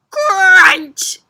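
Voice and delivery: high, loud, punchy; loud crunch. Shown as a demonstration. Reading the big sound word to the kids. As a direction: bite the word hard. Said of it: "See this big word here?".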